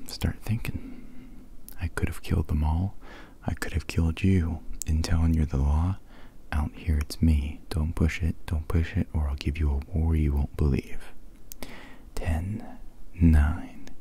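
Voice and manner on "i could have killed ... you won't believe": second try at the Rambo line, still whispered; a lighter whispered Rambo; whispered Rambo retake. Acted. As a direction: less gruff, plainer whispered read. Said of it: "Yeah, I really butchered that".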